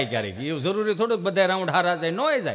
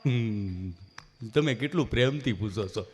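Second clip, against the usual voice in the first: lower, softer timid voice; a hint of a scared patient; nervous friend; 8 semitones lower, 5 dB quieter than usual. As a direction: sound uneasy and shy. Nervous friend at vaccine center.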